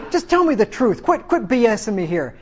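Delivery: acted impatience, pitched high; exasperated demand. Fed-up king demanding truth from the prophet, exasperated.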